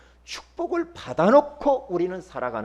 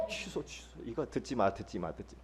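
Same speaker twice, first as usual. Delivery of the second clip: hushed retraction; 8 semitones lower, 13 dB quieter than usual. Retold or imitated. Hushing child after swearing.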